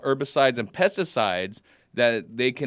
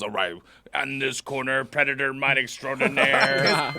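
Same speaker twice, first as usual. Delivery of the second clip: ring announcer. Acted. Boxing ring intro of mites.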